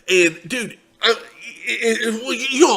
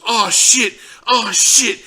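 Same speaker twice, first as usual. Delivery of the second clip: mock panic; 7 semitones higher, 5 dB louder, slower than usual. Friend panics over fallen guy.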